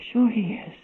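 breathy hushed aside; whisper. Acted. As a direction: let it fall to a whisper. Hushed concession mid-sermon.

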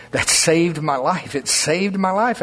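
slow, earnest, each word weighed; slow sincere testimony. Real, not acted. Pastor tells the congregation what saved him, slow and sincere. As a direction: say it slowly like it truly happened.

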